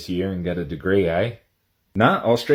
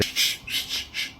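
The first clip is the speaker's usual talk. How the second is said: soft unvoiced shushing; hushing; 9 dB quieter than usual. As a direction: shush them into silence under your breath. Hushing the interviewer.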